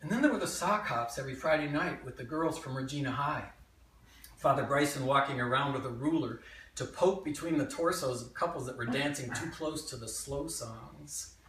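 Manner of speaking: lively memoir monologue with swinging pitch; animated childhood tale, present tense; stage storytelling. Acted. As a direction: tell it to a live audience as your younger self. Performs a written memoir monologue.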